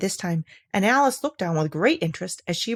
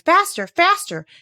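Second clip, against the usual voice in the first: high, slow, louder insistent call; urgent cry; 10 semitones higher, 5 dB louder than usual. Acted. The Queen keeps urging Alice, crying out. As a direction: drive her on, stretching each word. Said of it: "and still the queen cried".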